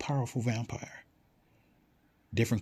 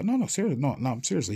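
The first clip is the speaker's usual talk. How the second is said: protesting, starting high and easing down; acted plea to be believed; earnest insisting; 4 semitones higher, 3 dB louder, faster than usual. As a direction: insist you are not joking. Acted teller insists it is true.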